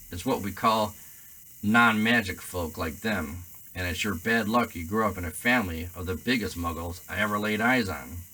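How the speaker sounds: loud, scornful half-giant; hearty giant sneering at muggles; Hagrid voice. Acted.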